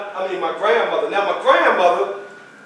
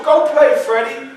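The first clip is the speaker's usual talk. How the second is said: high, louder shooing grandmother; grandmother insisting; 6 semitones higher, 5 dB louder than usual. Retold or imitated. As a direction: push the child off to play. Grandmother voiced in story.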